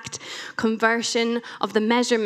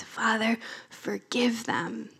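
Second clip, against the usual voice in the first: soft whisper; 6 dB quieter, slower than usual. Acted. Quoting Jesus on the cross.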